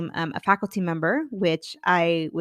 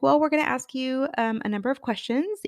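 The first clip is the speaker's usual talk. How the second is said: higher, polite lady voice; mimicking the interviewer; 6 semitones higher than usual. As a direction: voice the interviewer up high.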